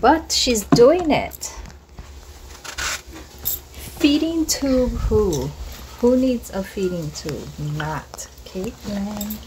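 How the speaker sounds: proud triumph. Real, not acted.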